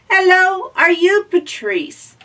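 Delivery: very high, loud little robot. Acted. Robot asking again.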